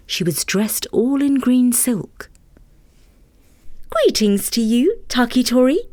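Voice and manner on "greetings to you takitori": lightly higher, easy fairy voice; easy fairy greeting. Acted. Fairy greeting Takitori, a touch higher and easy. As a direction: greet him breezily as the fairy. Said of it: "as easy as you please".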